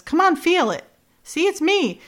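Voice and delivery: high, acted coaxing voice. Retelling him proving it's him, coaxing. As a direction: coax her, pitched well up. Acted reunion, he coaxes her.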